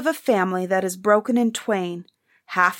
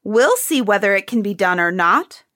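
louder defiant cry; 3 semitones higher, 5 dB louder than usual. Acted. Prince defying the lackeys while pushing past, loud cry. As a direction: push back hard, daring them to stop you. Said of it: "cried the other prince".

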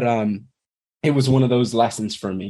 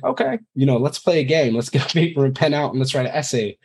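cheerful parent; 3 semitones higher than usual. Pretend. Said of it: "Or am I gonna be like".

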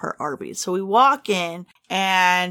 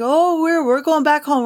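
higher, brighter retold answer; retelling her own cheery reply; 7 semitones higher, 3 dB louder than usual. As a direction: chirp it back like a happy traveler. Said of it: "I was like".

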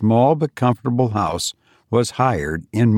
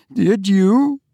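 high, sharp eager question; eager alarm; 10 semitones higher than usual. A narrator's reading. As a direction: seize on it with dread. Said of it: "grasping her arm, a horrible look".

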